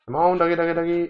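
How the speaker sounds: lightly sing-song dog call. Pretend. Gamer luring zombie dogs, a lightly chanted call. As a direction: coax the doggy on one held note. Calling game dogs to come.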